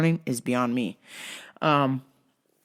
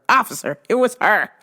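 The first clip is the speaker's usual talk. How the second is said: calling out to the officer; 5 semitones higher, 5 dB louder than usual. Pretend. Telling the officer.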